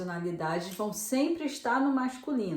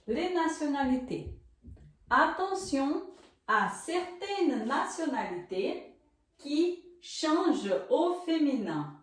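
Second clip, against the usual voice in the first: slow French reading; 4 semitones higher, slower than usual. Shown as a demonstration. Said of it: "eu vou ler aqui pra vocês, em francês".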